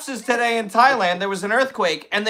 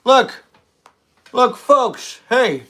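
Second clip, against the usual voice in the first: Biden impression; much slower than usual. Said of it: "It's my Biden wig".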